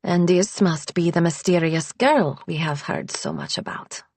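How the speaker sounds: put-on cool, Eastern European accent; reserved Eastern European housekeeper. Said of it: "she says in an Eastern European accent".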